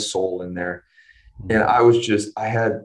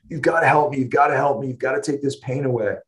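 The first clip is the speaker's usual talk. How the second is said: higher-pitched imitation of urgent begging; retold desperate pleading; 5 semitones higher, faster than usual. Daughter begging the anesthesiologist for relief, imitated desperate plea. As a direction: plead for help, imitating a child in pain.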